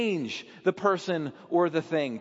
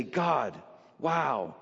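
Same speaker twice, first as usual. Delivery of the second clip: put-on beloved child thanking God with awe; grateful. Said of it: "the legitimate son or daughter who is beloved will say".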